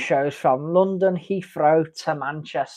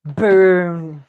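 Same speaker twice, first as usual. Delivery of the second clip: excited; 3 semitones higher, 8 dB louder than usual. Real, not acted. Celebrating a bingo win.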